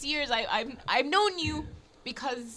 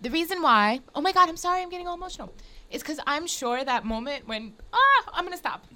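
choked up, apologizing as you go; tearing up; 3 semitones higher than usual. Real, not acted. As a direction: fight back tears while explaining. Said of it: "I'm, like, literally tearing up".

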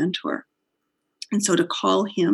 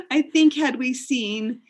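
laughing; 6 semitones higher, slower than usual. Real, not acted. Laughing at unexpected size.

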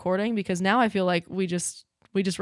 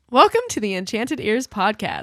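trying not to laugh; 5 dB louder than usual. Real, not acted. Giggling through intro.

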